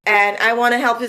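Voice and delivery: toned-down Vincy accent, even and measured; easier, milder accent. Shown as a demonstration. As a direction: ease off the Vincy accent for one-on-one. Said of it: "comes out a little bit easier".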